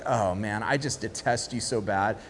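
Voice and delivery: wife sneering at David, low and cold; low scornful wife. Retold or imitated.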